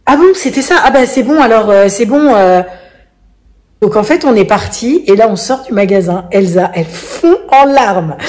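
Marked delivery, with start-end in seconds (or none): 0.1-2.6 high, flustered backpedal; a guard caught out, backing off fast; embarrassed guard. Retold or imitated. Mother mimicking the embarrassed guard's high backpedal. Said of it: "il me dit".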